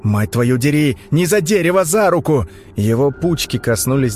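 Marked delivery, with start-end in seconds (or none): 0.0-2.5 urgent shout. Acted. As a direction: yell at the boy to grab his hand. Man pulling child from swamp.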